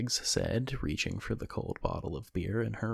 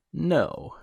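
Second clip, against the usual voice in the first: higher and louder, a mock sheepish child; chastised child; 8 semitones higher, 7 dB louder than usual. Sean answering Abby's scolding, mock chastised child. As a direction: play the scolded kid. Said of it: "playing the part of a chastised child well".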